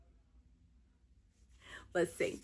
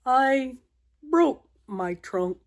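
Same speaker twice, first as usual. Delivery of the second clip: lightly voiced elephant; plain, a touch glum; Gerald voice; 4 semitones higher than usual. Gerald tells Piggy his trunk is broken, lightly voiced elephant.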